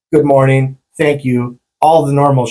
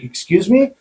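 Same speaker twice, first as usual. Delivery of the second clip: 1 affronted query; 6 semitones higher than usual. Retold or imitated. Retold startled reply to stranger.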